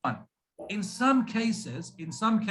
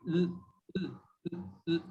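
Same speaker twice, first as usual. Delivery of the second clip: soft blind syllable; 2 semitones lower, 7 dB quieter than usual. Shown as a demonstration. Teacher shows students a blind syllable, very soft "l-". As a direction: barely sound the "l-". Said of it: "we're very soft on them".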